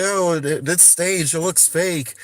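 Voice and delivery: imitating trolls crying fake; mocking the trolls. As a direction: parrot the skeptics dismissively. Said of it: "the trolls are out there trying to say".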